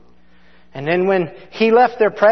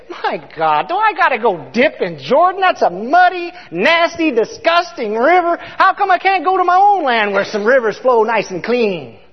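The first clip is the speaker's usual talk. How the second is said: Naaman complaining; 4 semitones higher than usual. Retold or imitated. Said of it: "What did Naaman the leper say?".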